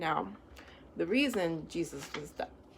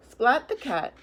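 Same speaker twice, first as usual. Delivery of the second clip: brighter, louder title announcement; title read; 4 dB louder, slower than usual. A narrator's reading. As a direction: announce the book title with flair. Reads book title aloud.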